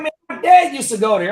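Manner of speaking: high retold young lady's voice; imitated young lady. Young lady telling customer about her dad, imitated high voice. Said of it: "She like".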